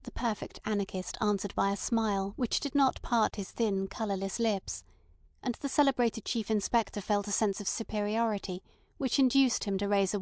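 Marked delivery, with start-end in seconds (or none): none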